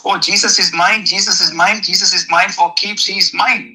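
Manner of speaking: insistent stress on MINE each time; repeated, emphatic MINE; possessive declaration. Shown as a demonstration. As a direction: land firmly on MINE, claiming him. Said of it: "you should say like that".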